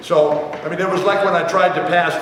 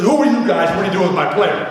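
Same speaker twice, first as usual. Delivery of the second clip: louder, higher demand from the storming coach; mock angry coach; 3 semitones higher, 3 dB louder than usual. Coach bursting in on the doctors, demanding answers. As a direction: burst in and challenge them.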